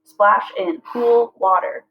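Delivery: slow, each syllable spaced out; slow syllable-counting read. Shown as a demonstration. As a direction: read as if clapping beats.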